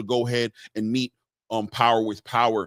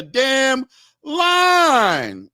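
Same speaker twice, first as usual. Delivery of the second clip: mock outburst; 12 semitones higher, 6 dB louder than usual. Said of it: "There you go".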